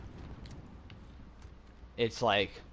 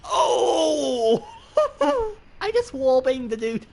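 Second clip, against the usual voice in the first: excited shout; 13 semitones higher, 7 dB louder, slower than usual. Real, not acted. Thrilled shout after a kill.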